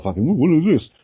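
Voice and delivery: baffled wonder. Retold or imitated. Ancient person stunned by a strange thing, mock bewilderment. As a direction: play a caveman stunned by something new.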